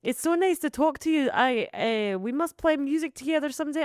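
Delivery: hammed-up celebrity on the phone; impression of a singer. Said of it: "he's like".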